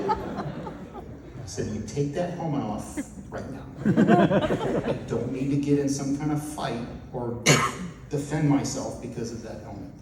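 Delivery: laughing through the words. Real, not acted. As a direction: giggle while you talk. Laughing while retelling warning.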